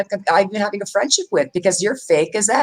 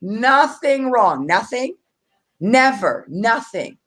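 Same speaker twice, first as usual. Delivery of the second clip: slow drawn-out mock; 2 semitones higher, much slower than usual. Repeating the denial slowly.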